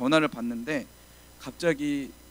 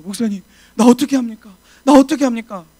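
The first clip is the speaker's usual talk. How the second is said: frightened plea; 7 semitones higher, 11 dB louder than usual. Retold or imitated. Frightened plea to senior pastor.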